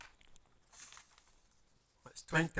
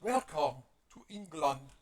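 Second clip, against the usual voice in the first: put-on English accent; 5 dB quieter than usual. Welcoming people to England, in English accent. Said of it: "need to do that in an English voice".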